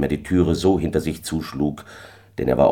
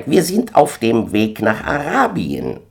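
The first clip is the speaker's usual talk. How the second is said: gander announcing; 6 semitones higher than usual. A narrator's reading. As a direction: proclaim the destination in a high honk. Gänserich verkündet das Reiseziel.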